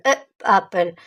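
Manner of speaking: "a apple" said as a mistake to avoid; wrong form. Shown as a demonstration. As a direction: show "a apple" as the wrong version. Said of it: "On peut pas dire a apple". (la forme fautive "a apple")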